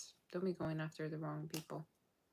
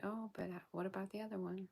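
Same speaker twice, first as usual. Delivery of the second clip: mock whiny viewer; 3 semitones higher, 5 dB quieter than usual. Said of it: "You're gonna be always like".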